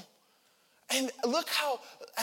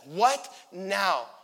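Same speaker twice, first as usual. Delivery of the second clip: "What now?" said firmly, WHAT stressed with a falling tune; annoyed and fed up; irritated retort; 4 dB louder than usual. Shown as a demonstration. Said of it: "No, he's like".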